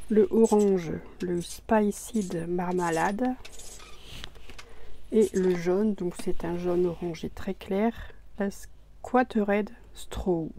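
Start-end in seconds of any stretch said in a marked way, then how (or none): 1.2-3.3 slow, careful English accent on the paint name. Real, not acted. Crafter slowly reading an English paint name in an English accent. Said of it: "ne faites pas attention à mon accent anglais". 8.4-10.5 very slow English accent on the color name. Real, not acted. Crafter slowly reading the yellow's English name in an English accent. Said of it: "ne faites pas attention à mon accent anglais".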